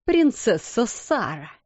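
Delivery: slow, sneering title; mock the name with scorn; contemptuous. Headmistress alone sneers at Sara, contemptuous. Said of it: "презрительно проговорила она".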